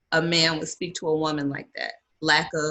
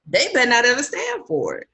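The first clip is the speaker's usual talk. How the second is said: higher, emphatic protective warning; stern warning; 5 semitones higher than usual. Real, not acted. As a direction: lay down the law for your nieces. Aunt warns about her nieces.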